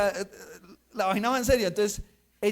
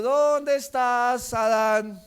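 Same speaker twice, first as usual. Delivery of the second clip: calling out; 4 dB louder, much slower than usual. Retold or imitated. God calling hidden Adam.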